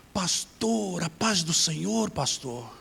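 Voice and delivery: slow, lightly put-on African accent greeting; hint of an African accent, drawn out. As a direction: imitate the African man greeting the pastor. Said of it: "com muito sotaque".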